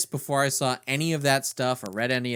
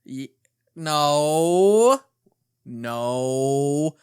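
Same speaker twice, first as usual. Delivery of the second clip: smoker's voice; 5 dB louder, much slower than usual. Pretend. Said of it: "my best smoker's voice".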